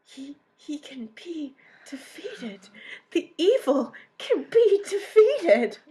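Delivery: slow, building to a high loud laughing cry; hammed-up heroic rally, slow; mock rallying cry. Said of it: "everyone was kinda like".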